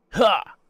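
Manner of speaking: high, loud "ha!"; sharp exclaimed burst; sudden "ha". Real, not acted. Streamer puzzling over where parts go, sudden "ha". Exclaims while searching the manual.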